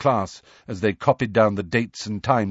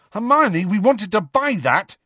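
high, raised-voice protest; indignant shout; 12 semitones higher, 4 dB louder than usual. A narrator's reading. Ron protests to Hermione over the bottle, shouting. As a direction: cry out in outrage at a friend. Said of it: "shouted Ron".

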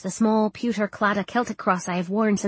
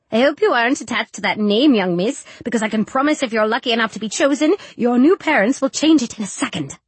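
tutting sewing lady; 3 dB louder than usual. Acted. Voices the lady who sews.

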